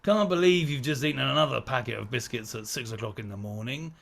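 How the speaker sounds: whispered sneer of an inner critic, low; mock self-scolding whisper. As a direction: hiss the insult to yourself. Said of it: "talking to yourself, going".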